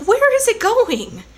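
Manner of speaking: high, slow, whiny complaint; exasperated whine. Retold or imitated. Annoyed driver whines at the NPR story, high and slow. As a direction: drag it out in mock despair. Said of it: "I was just like".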